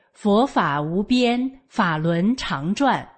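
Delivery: slow, measured recitation; unhurried chant-like reciting from memory. Retold or imitated. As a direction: recite it slowly, drawing out each phrase. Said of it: "我在那儿背".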